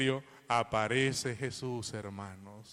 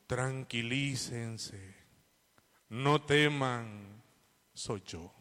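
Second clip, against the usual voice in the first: calm reassurance; much slower than usual. Retold or imitated. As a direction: say it slowly as if calming frightened men. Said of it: "qué dijo Jesús".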